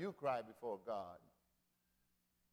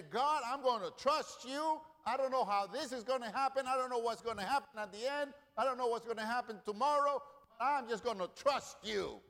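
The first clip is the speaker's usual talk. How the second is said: earnest prayer; 7 semitones higher, 3 dB louder than usual. Acted. Preacher voices a prayer of trust.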